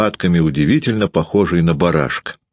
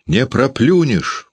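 high, slow mock yell; wife yelling back at her husband; 8 semitones higher, slower than usual. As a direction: shout it up high, slowly. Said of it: "кричала Варвара".

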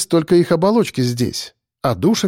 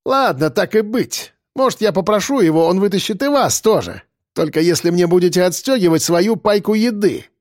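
higher-pitched, mocking offer; snide; 5 semitones higher than usual. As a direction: bargain with sly condescension. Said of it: "добавил с ехидцей".

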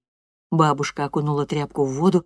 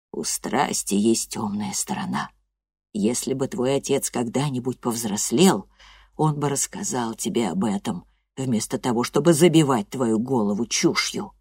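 a hint of a low, grave old woman; lightly voiced old grandmother; 5 semitones lower than usual.

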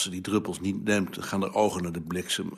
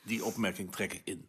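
soft, low-key climb-down; subdued retraction; 3 semitones lower, 10 dB quieter than usual. Acted. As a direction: take it back quietly. Backs down after being scolded.

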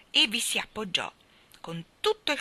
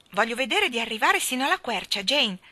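put-on loud, slightly raised boy's call; 4 semitones higher, 5 dB louder than usual. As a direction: call across to a companion on the move. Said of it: "gridò Michael mentre ella trottava".

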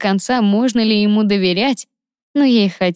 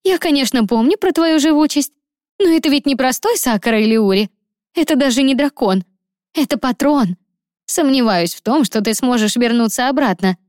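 lightly voiced, higher, anxious girl; worried friend; 5 semitones higher than usual. A friend warns Liza about the patron, higher and worried. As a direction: talk her friend out of it, pitched up with worry.

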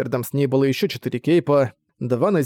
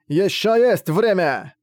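slow, strained, higher protest; running out of air; 6 semitones higher, much slower than usual. Acted. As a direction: drag it out, barely any air. Dying man insists.

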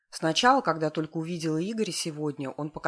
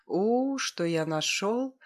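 purring, pleased; 5 semitones higher, much slower than usual. A narrator's reading. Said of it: "довольно промурлыкал".

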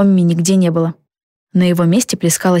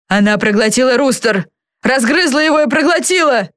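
understated yell rising higher; wailing outcry; 6 semitones higher than usual. A narrator's reading. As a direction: cry out in dismay, pitch climbing. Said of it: "завопил он". (вопль досады, всё выше)

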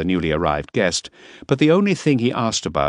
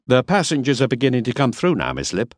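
Miss Lipp; 6 semitones higher than usual. A narrator's reading. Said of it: "Miss Lipp voiced in story".

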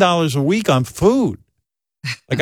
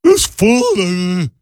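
kvetching mother; 6 semitones higher, slower than usual. Retold or imitated. Mother voiced in story.

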